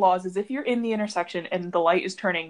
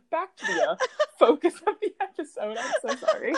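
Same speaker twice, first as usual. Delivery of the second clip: much higher, laughing through it; laughing apology; 12 semitones higher than usual. Real, not acted. Apologizing to listeners for the tangent, laughing. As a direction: giggle out an apology.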